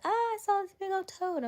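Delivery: high, loud mock shriek; freaked-out grandma. Grandma alerting the speaker to a toad, freaked out. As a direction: imitate a panicked grandmother crying out. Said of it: "Grandma freaked out".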